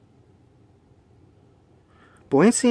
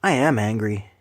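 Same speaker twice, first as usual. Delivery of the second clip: whispered anger; 3 semitones lower than usual. Real, not acted. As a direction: hiss I am angry under your breath. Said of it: "you hear anger in my voice".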